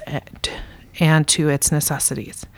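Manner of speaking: running out of breath mid-sentence. Real, not acted. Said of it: "Sorry, I'm out of breath".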